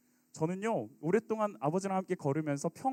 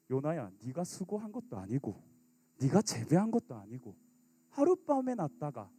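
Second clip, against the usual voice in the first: gentle God; 4 dB quieter than usual. Acted. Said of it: "하나님이 이렇게 또 말씀을 하십니다".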